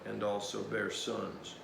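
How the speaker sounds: measured, solemn Bible reading; scripture reading. Acted. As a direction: read the passage aloud with gravity. Scripture reading between commentary.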